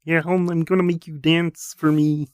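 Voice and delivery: high, slow action-star impression; put-on Schwarzenegger voice; Arnold. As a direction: drag it out like a hammy Arnie. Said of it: "little words with Arnold".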